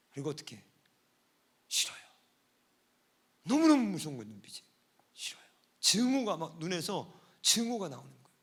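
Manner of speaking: normal talking voice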